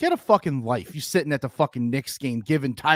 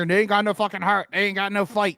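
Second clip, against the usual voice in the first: country accent; 5 semitones higher than usual. Shown as a demonstration. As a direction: say it like a good old country boy. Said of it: "Break out my country accent".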